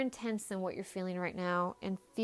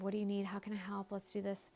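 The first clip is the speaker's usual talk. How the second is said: softly voiced, helpful partner; imitated supportive husband; 7 dB quieter, faster than usual. Future husband to upset partner, supportive. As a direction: offer help gently and quietly, as a retold quote. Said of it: "he's trying to be supportive".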